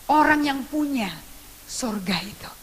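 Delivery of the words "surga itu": whisper. Retold or imitated. Preacher whispers heaven to father.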